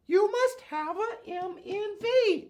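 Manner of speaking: high, slow squeaky cartoon mouse; Mickey Mouse voice. Shown as a demonstration. Teacher showing the class the mnemonic in a high cartoon mouse voice. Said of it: "you have to say it in a Mickey Mouse voice".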